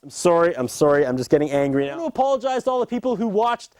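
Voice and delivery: a lightly hammed-up self-important host, climbing into shouts; sincere apologies curdling into petty rants; ranting apology host. A host apologizing to the viewers, hammed-up and building to shouts. Pre-taped apology segment, escalating rant.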